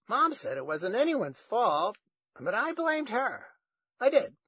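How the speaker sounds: high, loud grandma voice; loud high-voiced grandmother reliving a grievance; ranting grandma. A narrator's reading. Grandma rants about bananas.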